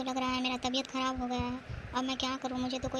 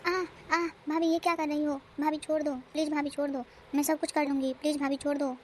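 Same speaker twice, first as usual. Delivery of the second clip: pleading. Acted. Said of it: "अब ज़्यादा नाटक भी मत कर".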